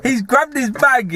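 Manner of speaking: building it up, wide-eyed; excited. Real, not acted. Telling his mate the mad bit, excited. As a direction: pitch jumps up, slowed for effect. Excited retelling of crackhead grabbing bag.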